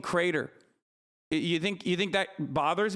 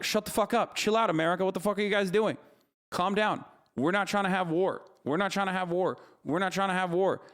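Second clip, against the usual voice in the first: voicing Ukraine, raised and exasperated; 4 semitones higher than usual. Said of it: "They're like".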